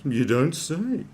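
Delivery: slow, drawn-out dry sarcasm; deadpan it slowly, eyes rolling; sarcastic. Real, not acted. Reacting to Gwyneth's mixed reviews with slow sarcasm.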